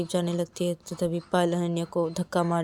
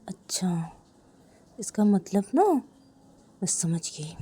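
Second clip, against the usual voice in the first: soft, slow realization; quiet slow reply; much slower than usual. Acted. Sister answering quietly at dinner, soft and slow. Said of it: "Ananya बोलती है धीरे से".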